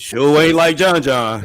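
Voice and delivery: laughing through a teasing jab. Real, not acted. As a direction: giggle while saying it.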